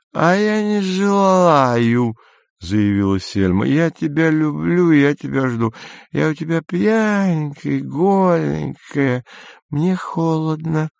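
put-on high, slow drunken cooing. A narrator's reading. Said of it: "совершенно пьяный голос Сельмы".

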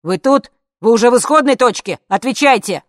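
loud, high frantic yelling; shouting. Acted. Bodyguard on the screen yelling at a colleague, loud and frantic. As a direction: bellow orders in panic. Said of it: "Слышались крики".

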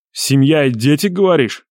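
mockingly echoed question, rising; contemptuous. A narrator's reading. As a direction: throw the plea back with scorn. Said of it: "с презрением произнёс".

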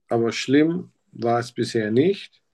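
ordinary delivery

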